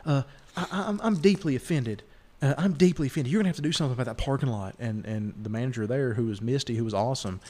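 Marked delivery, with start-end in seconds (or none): 0.1-4.7 put-on high, fussy complaining old lady; flustered Karen. Old lady complains at the hotel desk, high and fussy. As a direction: play the offended old lady demanding the manager. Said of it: "she's like".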